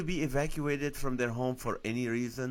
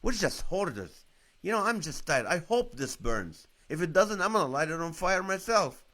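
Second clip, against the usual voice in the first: higher-pitched, mock-fed-up outburst; retold mad rant; 5 semitones higher, 4 dB louder than usual. Husband retelling his evacuation frustration, mock mad. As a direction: act out being fed up, pitch raised, building louder at the end. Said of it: "I was mad. I'm like".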